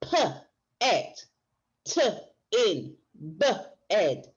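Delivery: P and et, t and in, b and ed said as separate sounds; onset and rhyme split. Shown as a demonstration. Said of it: "rhyme, um, an".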